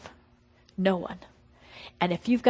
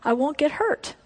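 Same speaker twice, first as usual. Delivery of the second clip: bold declaration; 4 semitones higher, 3 dB louder than usual. Retold or imitated. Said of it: "And so I finally had to say".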